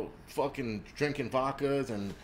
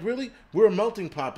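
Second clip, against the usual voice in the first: much higher, louder sarcastic jab; sarcastic disbelief; 7 semitones higher, 7 dB louder than usual. Retold or imitated. Mocking the outrage over beatings, higher sarcastic jab. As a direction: scoff in mock astonishment. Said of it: "I'm like".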